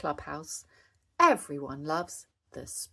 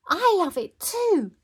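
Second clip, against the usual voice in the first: put-on high, loud child's shout; eager pitched-up cry; excited shout; 14 semitones higher, 8 dB louder than usual. A narrator's reading. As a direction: join in with glee. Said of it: "shouted Molly Mole".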